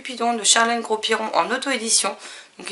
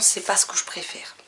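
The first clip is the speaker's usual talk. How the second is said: chuchoté; 2 semitones lower, 6 dB quieter than usual. Real, not acted. Aveu en passant, à voix basse.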